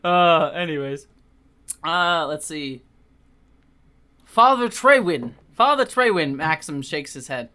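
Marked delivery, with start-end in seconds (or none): 4.2-6.4 put-on British accent. Maxim greeting the vicar in a British accent. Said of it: "all the British accents here".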